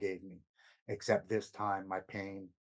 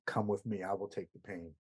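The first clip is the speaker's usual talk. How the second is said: softer, hushed luring voice; whisper-close promise of relief, much softer; coaxing inner voice; 5 dB quieter than usual. Retold or imitated. The disease of addiction urging him on, hushed and luring. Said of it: "I hear this voice that says".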